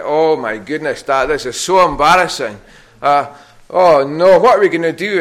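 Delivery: put-on flustered, embarrassed teen whine; panicked kids. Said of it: "the girls were like".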